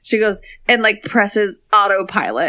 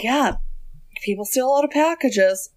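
put-on Canadian accent; 4 semitones higher, 4 dB quieter than usual. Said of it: "I was trying to do a Canadian accent there".

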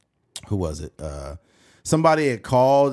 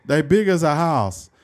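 higher comic pundit voice; blunt analyst impression; Charles Barkley; 4 semitones higher, 3 dB louder than usual. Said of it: "Because Charles be like".

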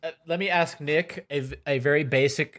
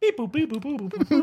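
toy robot voice; 9 semitones higher, faster than usual. Pretend. Mocking robot bleeps in game.

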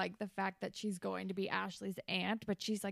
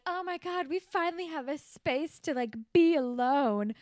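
excited gushing; 6 semitones higher, 6 dB louder than usual. Retold or imitated. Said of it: "they're like".

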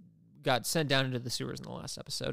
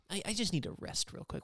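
mock sleepy whine; 6 semitones higher, 10 dB quieter than usual. Mock lazy Xavier reply.

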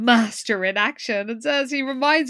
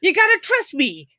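light Italian mobster voice; 3 semitones higher than usual. Retold or imitated. Vincenzo mobster quote.

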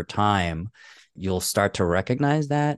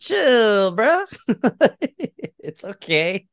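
high, loud, giggly teasing; laughing mock reply; 12 semitones higher, 4 dB louder, slower than usual. Co-host mocking the shocked brother, laughing. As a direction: tease him through laughter, pitched way up.

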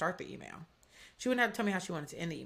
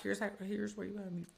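clinical instructions; 7 dB quieter than usual. Retold or imitated. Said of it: "especially when I'm like that".

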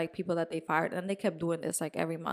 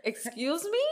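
mock indignation; 9 semitones higher than usual. Outraged at being fired.

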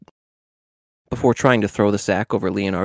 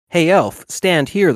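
louder, bossy store clerk; bossy call; 6 semitones higher, 6 dB louder, slower than usual. Acted. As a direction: order the elf around. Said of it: "the clerk told Raph".

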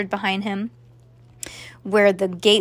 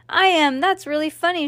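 high, raised voice of approval; woman shouting; 7 semitones higher than usual. A narrator's reading. Mother cheers on her son's joke, high shout. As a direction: call out supportively to the stage. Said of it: "shouted the woman".

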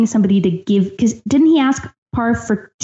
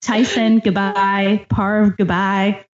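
slow, drawn-out goodbye; dramatic farewell; much slower than usual. Pretend. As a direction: bid them a solemn farewell. Mock farewell to doomed players.

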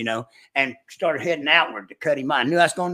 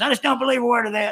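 imitating the partner's disbelief, higher and fast; mock disbelief; 9 semitones higher, faster than usual. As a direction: toss it off as a scoffing retold quote.

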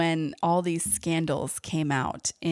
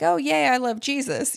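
high, louder mock cheer; mock gushing enthusiasm; 8 semitones higher, 5 dB louder than usual. Quoting what nobody at the law firm said, mock gushing. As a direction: imitate an over-keen believer, pitched way up. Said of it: "nobody there was like".

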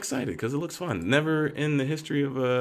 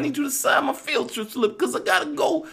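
very high, louder pleading with shouts; teen pleading with his aunt, very high and loud; begging Peter; 13 semitones higher, 4 dB louder than usual. Retold or imitated. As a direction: whine and beg at the top of the voice. Peter keeps begging Aunt May.

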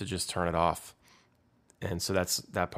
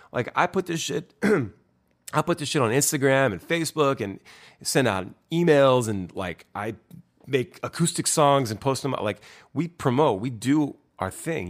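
higher, louder, heated self-defence; exasperated; 5 semitones higher, 3 dB louder than usual. Real, not acted. Musician defends the band against a promoter's blame, heated and exasperated. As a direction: list everything you did, getting more fed up.

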